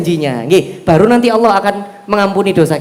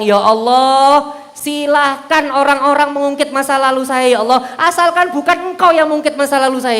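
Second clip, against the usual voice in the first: heartfelt prayer; 3 semitones higher than usual. Acted. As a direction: pray it earnestly, asking God to stay. Mencontohkan doa sambil menangis. (doa yang memohon dengan lirih)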